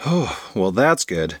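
eased, relieved exhale into words. Acted. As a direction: let the worry go on a breath. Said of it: "Rose sighed in relief".

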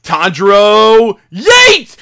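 drawn-out name, then high shouted punch; big, loud, hammed-up attack call; mock battle cry. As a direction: holler it like an anime attack. Voicing the hero's attack.

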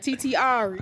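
laughing. Pretend. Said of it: "you gotta be like".

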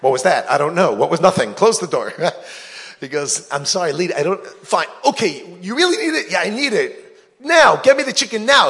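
high, loud quick exchange; loud bickering. Acted. Beggar demanding the chicken, loud and high.

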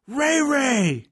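high-pitched mock yell, held out at no great volume; imitated wrestler yell. Co-host recapping Lesnar yelling for Rey, high mock yell. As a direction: mimic a wrestler yelling out a name. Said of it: "And then Lesnar yells".

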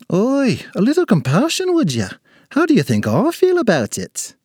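high-pitched indignant little man; offended little leprechaun. Acted. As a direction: protest like a wounded leprechaun.

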